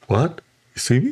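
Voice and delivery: high little fairy voice; startled fairy. Retold or imitated. Fairy spotted by the hiker, startled high voice. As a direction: squeak it in mock disbelief. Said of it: "the fairy looked at him".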